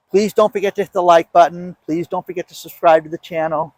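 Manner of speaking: cold, stiff speech; talking through the cold; shivering. Real, not acted. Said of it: "can't even talk 'cause I'm so cold".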